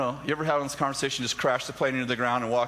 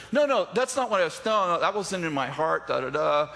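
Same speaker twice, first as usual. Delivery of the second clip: 1 defensive protest; 4 semitones higher, 3 dB louder than usual. Retold or imitated. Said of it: "I did defend myself".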